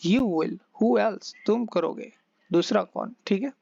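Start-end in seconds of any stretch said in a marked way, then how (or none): 0.1-1.3 very slow, deliberate reply; slow teacher demo; slow model answer. Shown as a demonstration. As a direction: drag "You will, who else?" out slowly for learners. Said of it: "जवाब आएगा".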